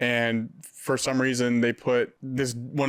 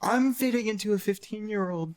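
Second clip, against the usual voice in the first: raised, put-on politician impression; Donald Trump; 9 semitones higher than usual. Comedian riffing on teenagers' ages to friends, Trump voice. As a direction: do a high-pitched presidential impression. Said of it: "I did that in Trump voice".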